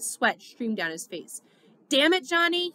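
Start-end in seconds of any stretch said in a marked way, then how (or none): 1.9-2.7 high, loud, anguished plea; anguished begging. A narrator's reading. Dally begging dying Johnny, loud anguished plea. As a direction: beg him not to die, voice cracking up high. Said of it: "he begged".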